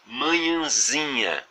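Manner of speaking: manhãzinha drawn out slowly, syllable by syllable, stress on zi; slow syllable demo. Shown as a demonstration. Teacher slowly models manhãzinha for students, drawn out. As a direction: spell out manhãzinha slowly for the class. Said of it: "A sílaba tônica de manhãzinha".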